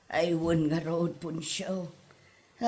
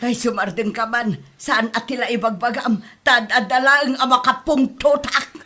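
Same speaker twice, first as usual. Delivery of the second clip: loud, sharp scolding of her husband; angry scolding; 2 semitones higher, 7 dB louder than usual. Acted. Wife loudly scolds her husband for his complaining, angry. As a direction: tell him off loudly, fed up. Mother scolds the father at home.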